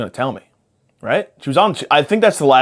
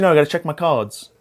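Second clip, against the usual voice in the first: quick mock British accent; lightly put-on British voice; British psychic; 3 semitones higher than usual. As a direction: imitate a British fortune-teller. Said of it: "I don't know why she's British".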